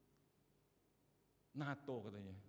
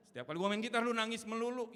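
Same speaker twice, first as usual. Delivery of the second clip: exasperated complaint; 11 semitones higher, 11 dB louder, faster than usual. Retold or imitated. Guitarist complaining about crying man.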